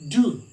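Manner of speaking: "do" as a plain d plus oo; isolated syllable "do", said as doo; demonstrated du sound. Shown as a demonstration. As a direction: sound out "do" alone, hard d. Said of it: "D U. It sounds what?".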